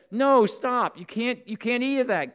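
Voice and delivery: high, loud commanding stop; firm shout. Pretend. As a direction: shout him down before he eats. What Adam should have shouted.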